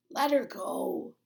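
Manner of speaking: slow, loud stern guard's order; a guard ordering, firm and slow. A narrator's reading. Thin guard orders a girl released, stern. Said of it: "the thin guard ordered".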